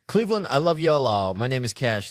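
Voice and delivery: loud, high call to the crowd; rousing sign-off. Real, not acted. Comic thanking Cleveland at set's end, rousing. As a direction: call out to the whole room, easing down.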